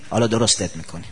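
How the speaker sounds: low, soft menacing promise; a quiet warning of what's coming; low, soft grave warning; quiet threat. Acted.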